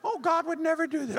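mock doubter. Preacher voicing a scoffing churchgoer. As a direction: sneer it like a skeptic.

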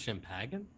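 "champagne" said as sham-PAG-en; mock correction, "champagne" as sham-pag-en; joke mispronunciation. Shown as a demonstration. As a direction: say "champagne" with a hard g, like sham-pagan. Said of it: "I think it's pronounced".

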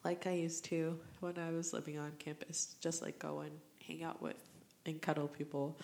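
soft, tearful half-whisper; real quiet crying while remembering; crying softly. Real, not acted. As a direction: let the tears thin the voice. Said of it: "sorry, I'm crying".

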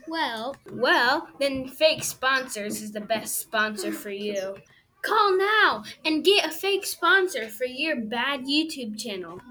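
salesy fake ad read; infomercial. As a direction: pitch it like a TV ad.

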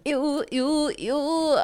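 high, stretched, repeated ews; real disgust. Real, not acted. Co-host says they're wearing it, disgusted. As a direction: moan each ew in revulsion. Disgust at shower cap joke.

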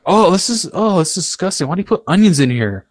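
imitating his younger self disgusted by onions; disgusted whine. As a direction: whine about the food. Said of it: "at first I'd be like".

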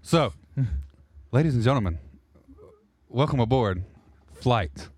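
airline captain on the intercom; flight captain announcement. Pretend. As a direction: welcome passengers aboard like a pilot. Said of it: "That's not the voice said you said you were gonna use".

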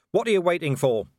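loud, high defiant yell. A narrator's reading. Vimes yelling up at the watching werewolves, defiant yell. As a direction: shout the challenge at the wolves. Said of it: "Vimes yelled".

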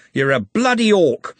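bully shouting insults at the orc; angry shouting. Acted. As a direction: yell to hide fear. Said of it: "growled Andy".

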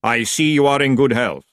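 solemn, evenly intoned remark; voice of Death. A narrator's reading. Death addressing young Tiffany, solemnly intoned. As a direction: pronounce it gravely, without emotion. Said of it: "said Death in his no voice".

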